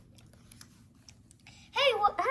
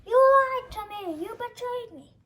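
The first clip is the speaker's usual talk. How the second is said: hurt accusation; 6 semitones higher, 6 dB louder than usual. Acted. Betrayed, accusing.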